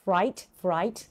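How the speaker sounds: fright with a clear R after the F; pronounced R. Shown as a demonstration. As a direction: slowly model the R in fright. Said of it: "pronounce the R". (ออกเสียงตัว R ใน fright ให้ชัด)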